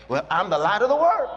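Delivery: bold declaration. Shown as a demonstration. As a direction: declare it with boldness. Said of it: "Be bold".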